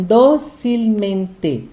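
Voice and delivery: "docilmente" slowly as dó, cil, men, te; slow "docilmente", broken up from a stressed dó; syllable stress demo. Shown as a demonstration. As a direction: sound out "docilmente" in separate slow beats. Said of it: "numa sobresdrúxula aqui nesse caso".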